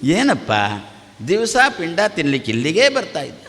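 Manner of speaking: gentle lilting telling-off; sing-song scolding. Shown as a demonstration. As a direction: scold them melodiously, without shouting. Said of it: "ಸ್ವಲ್ಪ ರಾಗದಿಂದ ಬೈ".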